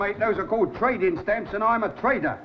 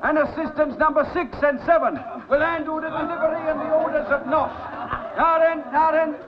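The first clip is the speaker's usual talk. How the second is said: calling out to the shop; 3 semitones higher than usual. Acted. Shopkeeper directing crowd of customers.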